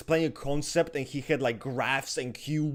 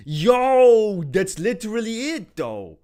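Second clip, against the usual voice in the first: loud laughing burst; 5 semitones higher, 10 dB louder, slower than usual. Real, not acted. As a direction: laugh out the word. Laughing outburst.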